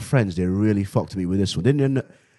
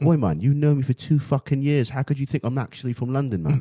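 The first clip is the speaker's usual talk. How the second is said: put-on higher, indignant London accent; 5 semitones higher than usual. Challenging friends who doubt him, London accent. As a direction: protest like an affronted Londoner. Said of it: "talking like I'm from London".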